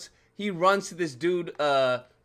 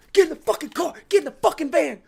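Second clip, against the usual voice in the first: mock order; 9 semitones higher, 6 dB louder, faster than usual. Women in van ordering.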